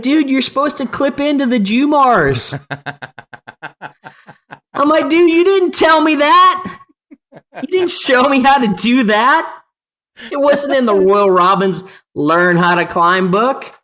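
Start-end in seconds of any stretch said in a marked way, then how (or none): 0.0-2.5 high, loud exasperated scolding; imitated scolding yell. Partner scolding the novice for not clipping in, high loud yell. 5.1-13.7 defensive yell back. Retold or imitated. Novice shouting back at his partner in protest, high and loud.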